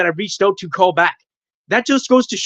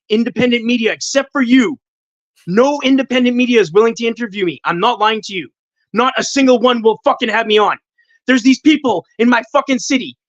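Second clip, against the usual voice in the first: real rising frustration, higher pitched; frustrated; 4 semitones higher than usual. Real, not acted. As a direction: vent a long-held grievance. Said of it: "I get frustrated".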